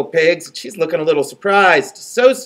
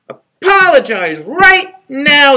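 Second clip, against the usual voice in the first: higher, louder, slow insistence; demanding; 10 semitones higher, 6 dB louder, slower than usual. Acted. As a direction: drag out the demand with stomping weight. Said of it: "they demanded".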